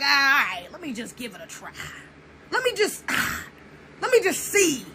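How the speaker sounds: soft, acted grudging agreement; reluctant giving-in. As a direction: give in under your breath, half-hearted. Acting out reluctant willingness to try.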